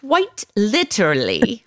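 imitating a British friend, slowly; slow, attempted British coaching; careful try at a British accent. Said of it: "I have a British friend".

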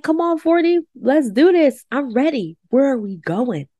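rally yourself for the new decade; talking to forty like a friend, eager; eager pep talk. Retold or imitated. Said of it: "but now I'm like".

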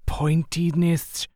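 slow, drawn-out list. Acted.

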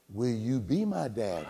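soft, low, slow imitation of a child; imitated small child's soft request; little girl's plea. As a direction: ask hopefully, hushed and drawn out.

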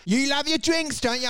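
high, teasing voice of a condescending foreigner; mocking stereotyper. Foreigner teasing an Aussie about drinking, high mocking voice. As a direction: sneer it like someone patronising Aussies.

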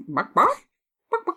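lightly voiced clucking chicken; chicken sound. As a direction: cluck the words like a hen. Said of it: "that was very convincing".

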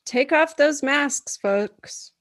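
talking around a retainer; words slurred by a retainer; retainer lisp. Shown as a demonstration. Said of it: "Let me try that again".

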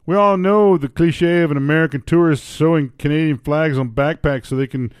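put-on Canadian accent. Reading a Canadian's column aloud, in Canadian accent. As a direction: read it as a comic Canadian. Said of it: "give up the accent".

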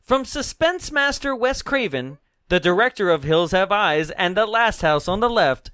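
horror trailer voice. Acted. Reading trailer narration aloud.

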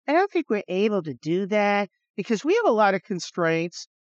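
smarmy officials stalling the general; smarmy brush-off. Retold or imitated. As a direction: stretch out the Well like a smug official. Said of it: "they were just smarmy".

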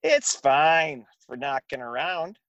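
lightly done mom impression; imitating mom. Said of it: "My mom used to always say that".

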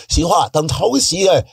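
gibberish in a light mock Chinese accent. Comic showing off fake Chinese gibberish to friends, lightly mocking. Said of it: "I could do that".

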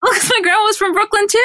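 very high, squealing through laughter; laughing protest. Real, not acted. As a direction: defend yourself while cracking up. Laughing defence after being teased.

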